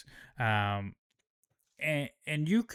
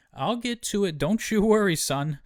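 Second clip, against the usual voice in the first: higher and louder, breezy dismissal; brushing him off; 8 semitones higher, 4 dB louder than usual. Retold or imitated. Rhaenyra putting off Hugh's demand for land, loud and breezy. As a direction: shoo him away with a loud reassurance. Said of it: "she's like".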